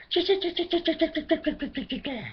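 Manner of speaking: starling chirps. Acted. Starlings mock with bird calls.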